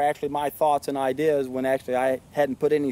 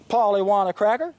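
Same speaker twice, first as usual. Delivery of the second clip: parrot voice; 3 semitones higher than usual. Retold or imitated. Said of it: "might as well be just saying".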